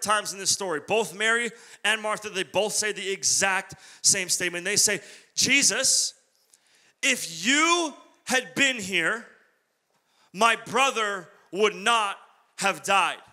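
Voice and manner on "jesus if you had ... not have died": slow, pleading lament; drawn-out mourning plea to Jesus. Retold or imitated. Sisters lament to Jesus, slow and pleading.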